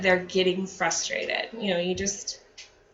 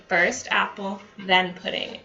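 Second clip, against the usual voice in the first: calm, concise. Shown as a demonstration. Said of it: "in a calm, concise voice".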